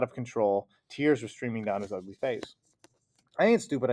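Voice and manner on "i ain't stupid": yelled. A narrator's reading. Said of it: "I yelled".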